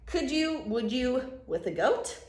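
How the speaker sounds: loud questioning, bouncing phrases; pestering Sam. Acted. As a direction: keep coaxing with punchy little questions. Acts Sam's persistent question.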